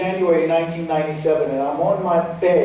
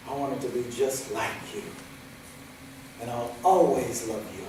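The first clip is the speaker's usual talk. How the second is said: hushed; 5 semitones lower, 8 dB quieter than usual. Retold or imitated. Soft end of plea.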